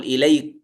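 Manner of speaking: إليك said with the kaf held apart and clear. Shown as a demonstration. Teacher stressing how Hafs does not merge it. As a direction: keep the kaf of إليك distinct, unmerged. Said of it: "لا يقول".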